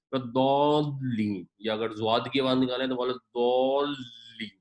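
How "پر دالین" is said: دالین very slow, with the proper ض sound; drawn-out correction. Shown as a demonstration. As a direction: stretch the دالین carefully. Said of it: "دالین نہیں ہے". (دالین کو آہستہ درست مخرج سے)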